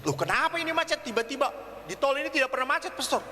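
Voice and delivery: acted mild bewilderment; baffled driver. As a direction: puzzle aloud quickly at a sudden holdup. Driver baffled by sudden traffic jam.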